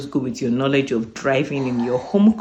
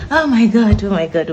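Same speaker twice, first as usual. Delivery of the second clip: loud, thrilled squeal, much higher; bursting with real joy, nearly shouting; excited shriek; 6 semitones higher, 9 dB louder than usual. Real, not acted. Back home after passing the driving test, thrilled loud squeal. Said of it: "I don't want to shout".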